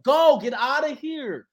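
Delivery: boo him off the stage; mock dismissal. Voicing the cipher crowd.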